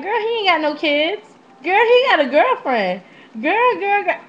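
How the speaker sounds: put-on high, fast girlfriend chatter; excited gossip friend. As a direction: gush like a friend spilling tea. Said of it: "She's like".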